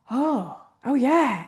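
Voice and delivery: slow, drawn-out "oh yeah"; dawning realization. Retold or imitated. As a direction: retell a slow dawning discovery, stretching it out.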